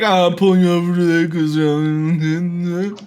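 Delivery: lightly mumbled cop voice; mumbling Shaq impression. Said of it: "he's like".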